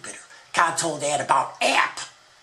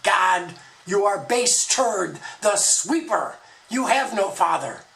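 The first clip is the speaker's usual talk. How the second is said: louder, raised defiant voice; defiant shout; 4 semitones higher, 4 dB louder than usual. Acted. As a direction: hurl it up at God. Ad Man defies God.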